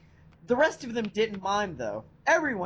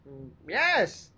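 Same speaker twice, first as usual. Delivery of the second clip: cold rasping evil emperor; 3 semitones lower than usual. Acted. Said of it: "said the Dark Lord".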